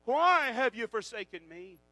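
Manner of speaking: preacher re-enacting an anguished outcry; retold cry. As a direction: cry it out, leaning hard on "why". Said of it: "he cries out and says".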